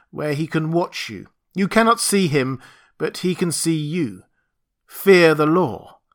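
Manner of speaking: solemn, commanding warning. Acted. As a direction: warn the crowd like a prophet. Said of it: "lifted up my voice".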